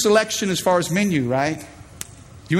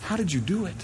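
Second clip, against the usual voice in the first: quiet inner prayer; 10 dB quieter than usual. Retold or imitated. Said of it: "I think".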